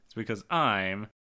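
low, glum mock confession; deadpan kid blaming herself; self-blaming child. Daughter blaming herself for the divorce, low glum voice. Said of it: "She says".

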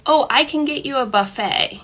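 kind, easy reassurance; gentle, loving. Shown as a demonstration. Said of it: "a gentle, loving sentence".

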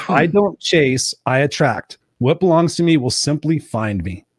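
slow, deliberate affirmation read. Retold or imitated. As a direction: say it like a mantra, slowly. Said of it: "She said".

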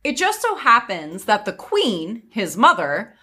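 measured fairy-tale narrator; story narration. A narrator's reading. Telling friends of a scolding mother, story narration.

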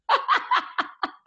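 a high, airless burst of laughter; high breathless laugh. Real, not acted. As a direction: lose it to silent laughter. Cracking up at the story.

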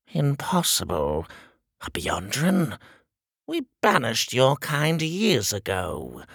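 disdainful little tyrant; shrill king voice. Acted. King voice held.

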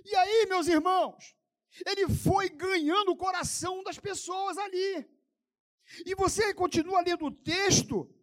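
ringing pulpit delivery; impassioned preaching. Real, not acted. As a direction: preach it with full force, pitched high. Preaches at full force.

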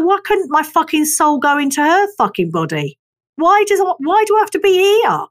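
rising, exasperated complaint at fate; exasperated rant. Retold or imitated. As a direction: whine it out to the sky, fed up. Venting frustration at fate, quoted self.

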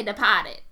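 "Departed" with the R dropped, Boston style. Shown as a demonstration. Correcting his Boston accent, "Departed" with no R. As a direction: say "Departed" as "De-pah-ted". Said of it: "they don't pronounce their R's right".

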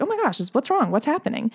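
mild mock panic, starting high; retold parental alarm. Parents running back in to a screaming child, mildly alarmed. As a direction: act out worried parents rushing in.

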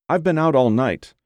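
acted near-tears distress; verge of tears. A narrator's reading. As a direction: sound convincingly upset on the phone. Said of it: "Her voice trembled on the verge of tears".

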